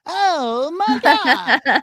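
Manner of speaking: high, slow laughing exclamation. Real, not acted. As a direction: laugh it out in disbelief. Laughs at the accent question.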